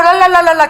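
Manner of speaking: rapid sing-song "la-la-la" babble; babbled tongues prayer. Retold or imitated. Preacher showing listeners how she prays in tongues, babbled. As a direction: imitate tongues as a run of la syllables. Imitates her own tongues praying.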